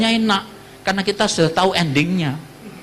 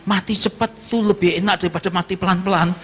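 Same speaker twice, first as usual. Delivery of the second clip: joking; 3 semitones higher than usual. Retold or imitated. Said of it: "Sambil guyon saya bilang".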